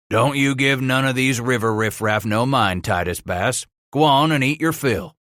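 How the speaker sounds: a hint of a gruff but kind patroon; lightly voiced kindly pilot. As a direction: reassure the hungry boy. Pilot reassures the boy.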